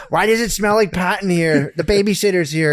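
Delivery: nagging wife. Retold or imitated. Wife catching husband smelling pot, nagging. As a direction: play a lightly voiced nagging wife. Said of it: "your wife comes down and is like".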